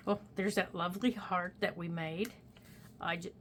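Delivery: talking through hiccups; hiccuping mid sentence. Real, not acted. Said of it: "oh, I've got the hiccups".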